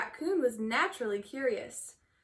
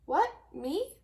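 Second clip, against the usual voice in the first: bear feigning innocence; 6 semitones higher than usual. A narrator's reading. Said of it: "said the bear".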